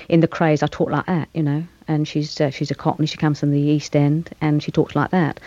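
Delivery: light, conversational Cockney; Cockney accent. Shown as a demonstration. Actor demonstrates the film role's voice for the interviewer, Cockney accent. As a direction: East End London Cockney, chatty and unforced. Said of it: "I'll do a bit for you in Cockney".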